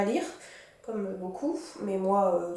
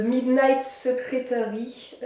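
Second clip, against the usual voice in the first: English accent; much slower than usual. Shown as a demonstration. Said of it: "J'adore mon accent anglais".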